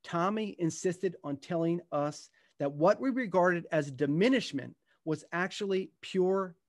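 unhurried storytelling read to an audience; gentle book-reading voice; reading from his book. Acted. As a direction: read it like a memoir passage, letting moments land. Reads aloud from his book.

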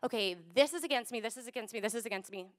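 deflated grown-up resignation; discouraged. Pretend. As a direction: let it drop like you've given up. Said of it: "not like".

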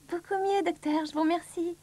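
a touch of a small patient; lightly voiced Monsieur Petit. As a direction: thank the doctor in a small voice.

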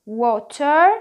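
American WATER with sounded t, 'wo-ter'; loud American water, r at the end; American accent. Shown as a demonstration. Teacher repeats the American option, American 'wo-ter'. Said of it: "الامريكان اكسنت بتاعت الورد دي بتقول".

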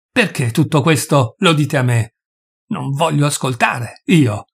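roughly hammered, deliberate words; hammering each word. A narrator's reading. Doctor refusing to hear his host out, hammering each word. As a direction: drive each word home, rudely. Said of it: "martellando rudemente ogni parola".

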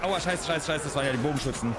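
fast panicked cursing; panicking gamer. Real, not acted. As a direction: rattle it off in alarm. Hit by archers, panicking.

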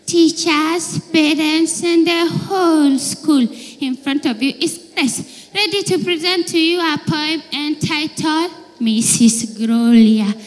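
mock school presenter; child announcer.

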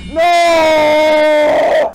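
sudden high yell of fright; scared shout. Real, not acted. Gamer yelling no as the jumpscare hits, frightened shout. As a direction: cry out as it jumps you.

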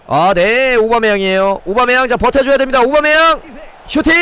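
excited play-by-play. Real, not acted. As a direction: pitch climbing steadily with the attack. Live call of a building attack.

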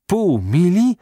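high, loud disbelieving cry; both officers exclaim at the absurd length, shocked; astonished exclaim. A narrator's reading. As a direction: gasp out the question in disbelief. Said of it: "zawołali jednocześnie major i generał".

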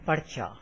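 "parcha" with r sounded before the ch. Shown as a demonstration. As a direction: say "par-cha", r closing the first syllable. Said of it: "is read like".

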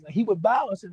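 ordinary delivery

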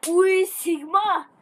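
drawn-out groan. Real, not acted. Reacting to game.

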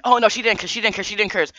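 a high mock-voice of the flustered neighbor; mocking the dude. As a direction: squeak out the denial high and whiny-fast. Dude denies wife cursed.

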